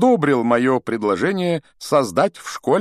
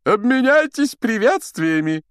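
very high, loud stage command; Локонс commanding; 7 dB louder than usual. A narrator's reading. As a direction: call the order out across the hall. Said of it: "скомандовал с подмостков Локонс". (громкая команда с подмостков, высоким голосом)

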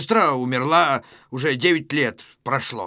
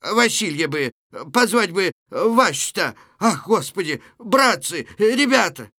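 flustered calls, building higher and louder; 4 semitones higher, 3 dB louder than usual. Acted. Old Luka seeking help for Natasha, flustered. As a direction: fuss anxiously, then call for help. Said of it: "Лука, суетясь".

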